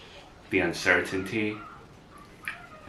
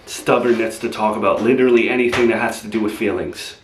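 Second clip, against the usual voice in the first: raised, resentful rant; loud bitter parting shot; 5 dB louder, faster than usual. Acted. Boyfriend ranting at Gabby as he is thrown out, loud and bitter. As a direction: fire off the insults on the way out.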